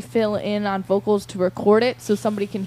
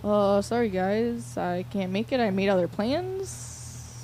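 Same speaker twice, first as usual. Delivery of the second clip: softer, mock-apologetic bail-out; mock excuse; 6 dB quieter, slower than usual. Host playing the singer who bailed on the band, mock excuse. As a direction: imitate someone lamely backing out, drawing out the end.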